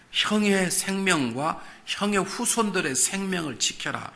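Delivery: slow, high, solemn command; voice of God. Retold or imitated. God commanding Joseph to spare his brothers, slow and solemn. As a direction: pronounce it like a divine decree.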